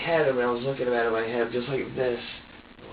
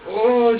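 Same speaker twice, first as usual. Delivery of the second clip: retold overwhelmed groan; 9 semitones higher, 7 dB louder than usual. Reenacts the moment of overwhelm.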